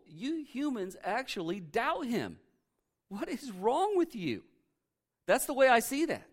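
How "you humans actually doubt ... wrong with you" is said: slow, high disbelief; exasperated. Retold or imitated. Angels scolding doubting humans, slow exasperation. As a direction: scold them like foolish children.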